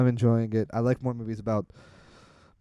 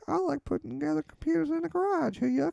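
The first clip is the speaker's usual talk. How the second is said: put-on high, airy Palo Alto tech guy accent; 3 dB quieter than usual. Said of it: "that is a spot-on Palo Alto accent".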